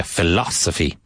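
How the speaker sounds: Philosophy with the beat on LOS; stress on second syllable. Shown as a demonstration. Teacher showing students where Philosophy is stressed, second-syllable stress on LOS. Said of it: "Emphasis on the second syllable".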